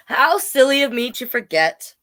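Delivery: high-pitched storybook dog; reply in a high little dog voice; silly dog character. A narrator's reading. Voicing Woof answering the sheep.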